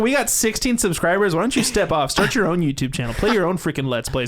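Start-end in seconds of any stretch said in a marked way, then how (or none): 0.0-2.6 hammed-up tough guy to listeners; mock tough rant.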